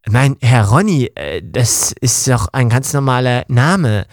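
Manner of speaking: etwas tiefere, leicht verstellte Dienerstimme; erklärt seinem Herrn gekränkt, es sei ein normaler Name; Ong Punch beschwichtigend. Acted. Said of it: "Ja, komm, Ong Punch". (Ong Punch widerspricht seinem Herrn Ronny, etwas tiefer verstellt)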